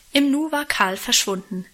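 ordinary delivery, nothing marked

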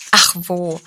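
lightly acted sob; sobbing. A narrator's reading. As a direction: brush it off through pretend tears. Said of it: "schluchzte sie".

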